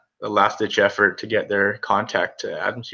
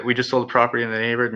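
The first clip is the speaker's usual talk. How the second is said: rushed recital; 3 dB quieter, much faster than usual. Shown as a demonstration. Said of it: "memorize it".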